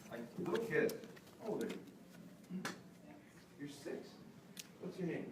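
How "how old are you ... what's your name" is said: soft, slow, gentle questions. Real, not acted. Trainer gently speaking to a six-year-old, soft and slow. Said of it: "you'll hear it in my voice".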